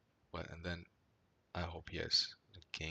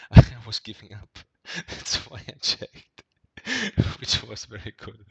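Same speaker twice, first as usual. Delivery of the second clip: laughing; 4 semitones higher, 18 dB louder than usual. Real, not acted. Laughing while recalling hand.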